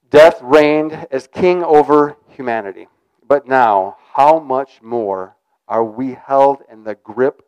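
slow, solemn reading of the verse; scripture reading. Acted. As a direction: read it as holy text, measured. Reads scripture aloud.

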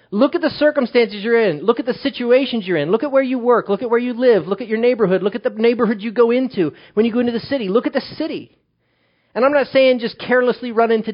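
rising exhortation. Acted. Pastor urging the church to look around, loud and rising. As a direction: drive the list home like a preacher. Preacher exhorting congregation, building.

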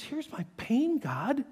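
building cry of hurt; raw cry to God. Acted. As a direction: cry out the pain. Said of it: "He says".

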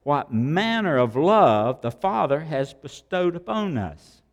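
"manner" pushed up and held; stress on manner. Shown as a demonstration. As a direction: underline "manner" as you read the verse. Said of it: "now underline manner".

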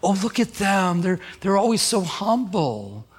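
mock admiration, drawn out at the end; imitating an impressed onlooker; admiring onlooker. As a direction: gush lightly over someone's humility. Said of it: "And then people think".

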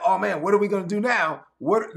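hammed-up worry over bread; mock panic. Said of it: "And they're like".

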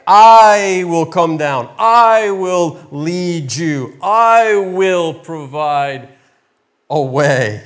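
slow, loud, weighty declarations; voice of God. Acted. God promising Moses, slow and commanding. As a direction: proclaim each promise slowly and grandly. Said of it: "And he's telling Moses".

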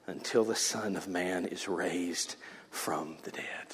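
hushed secret whisper. Acted. Jesus commanding the disciples, a hushed whisper. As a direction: tell them in secret.

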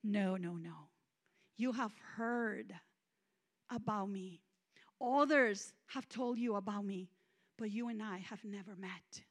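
low, soft, calm correction; sobering, gentle. Retold or imitated. God gently telling her they have never met, low and soft. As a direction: quietly set her straight. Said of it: "the most sobering words I ever heard".

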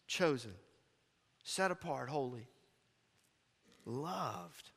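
gentle, sincere near-whisper of a list; soft, tender list. Real, not acted. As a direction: drop to a hush and let each word land. Quiet list after loud preaching.

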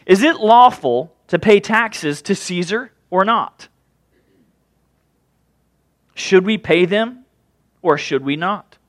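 measured, unhurried reading of the gospel; scripture reading. Acted. Pastor reading the gospel to the church, steady and measured. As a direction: read the passage to the congregation with care.

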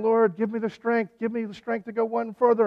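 retold urgent plea, high and loud; crying out. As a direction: cry out for strength like a tiring swimmer. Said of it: "and he's crying".

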